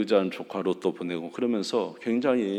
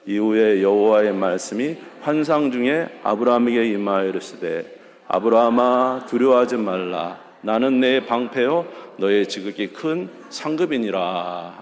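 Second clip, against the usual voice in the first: loud, measured reading of scripture; scripture reading aloud; 4 dB louder than usual. Shown as a demonstration. Preacher leading the church in reading the verse, loud and measured. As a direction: read the verse out to the congregation. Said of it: "같이 읽겠습니다".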